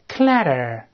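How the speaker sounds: clatter read clearly as the English word; model reading. Shown as a demonstration. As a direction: say clatter for the class to repeat. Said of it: "我们再读一遍".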